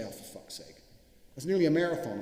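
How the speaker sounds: a put-upon groan, breathed out under the breath; mock grumble. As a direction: grumble like a tired runner. Imagined reply grumbling about twenty miles.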